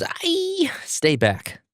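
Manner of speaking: very high shriek, dropping into a warning; hammed-up high yelp of fright; scared scream. A narrator's reading. Zenitsu warding off the demon, mock scared scream. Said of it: "very scared and screaming Zenitsu".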